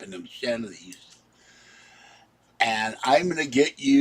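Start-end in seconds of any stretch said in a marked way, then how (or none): 2.6-4.0 louder mock threat; imitating a yelled threat; retold threat. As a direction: bark it like the ranting stranger. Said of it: "He screams and yells at the top of his lungs".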